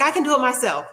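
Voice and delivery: mock-huffy I can do it myself; snappy insistence. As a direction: play the proud lady brushing off help. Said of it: "She's real snappy".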